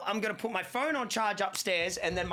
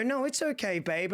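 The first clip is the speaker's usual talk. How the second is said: lightly voiced wife; 5 semitones higher than usual. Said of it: "She's gonna go".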